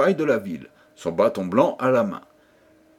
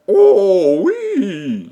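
loud, high burst of longing; eager cry; 9 semitones higher, 9 dB louder than usual. A narrator's reading. King longing for a son, exclaiming eagerly. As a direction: blurt it out with all your desire.

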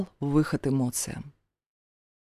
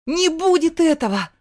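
much higher, louder yell; desperate shout; 10 semitones higher, 4 dB louder than usual. A narrator's reading. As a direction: shout after the leaving stepfather. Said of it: "Пытаясь докричаться, повторила я".

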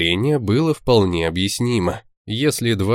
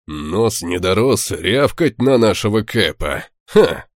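smirking. Acted. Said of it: "усмехнулся Берг".

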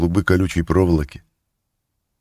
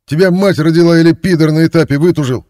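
much higher, louder screaming abuse; furious insult; 11 semitones higher, 9 dB louder than usual. A narrator's reading. Thief screaming abuse at the silent guard. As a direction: spit the insult at the door.

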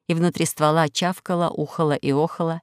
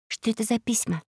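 quiet question; 4 semitones higher, 5 dB quieter than usual. Acted. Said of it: "тихонько спросила Алиса".

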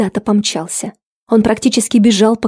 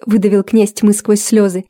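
usual speaking voice

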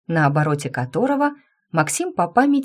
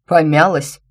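louder incredulous echo; incredulous cat; 6 dB louder than usual. Acted. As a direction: gape at the word in disbelief. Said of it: "вытаращился кот".

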